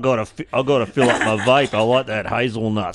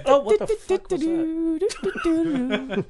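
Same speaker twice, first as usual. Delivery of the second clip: laughing disbelief; much slower than usual. Real, not acted.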